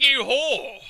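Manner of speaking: exasperated name-calling; annoyed retort. Retold or imitated. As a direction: curse the creature in retold annoyance. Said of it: "I was so annoyed with it".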